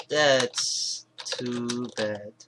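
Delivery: lightly voiced character, drawn out very slowly; a mild, slow letdown line; Yuno's line, slow. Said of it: "Right, Yuno. Since she's gonna be speaking".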